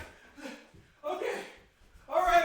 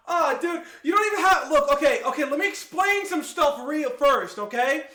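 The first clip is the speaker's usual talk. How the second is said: flustered and loud; 6 dB louder than usual. Real, not acted. Flustered, explaining to chat.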